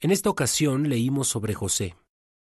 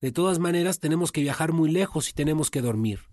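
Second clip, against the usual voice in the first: scolding coworkers; 7 semitones higher than usual. Acted. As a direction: scoff at Giovanni for trying so hard. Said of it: "lo regañaron diciéndole".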